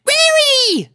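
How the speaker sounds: a little sister bursting in; excited filly. A narrator's reading. Sweetie Belle excitedly calling her sister, high-pitched. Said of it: "spoke Sweetie Belle excitedly".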